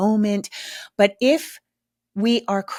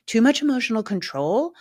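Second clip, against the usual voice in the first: whisper; 3 semitones higher than usual. Real, not acted. Aside in parenting talk.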